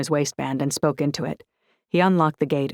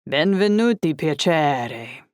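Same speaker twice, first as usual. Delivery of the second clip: warm welcome; slower than usual. Acted. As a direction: greet her warmly. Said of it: "Enzo exclaimed warmly".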